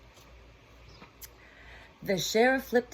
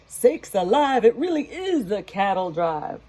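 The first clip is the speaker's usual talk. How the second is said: deputy crying out; 2 semitones higher, 5 dB louder than usual. Acted. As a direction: cry it out in astonishment. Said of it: "The deputy cried".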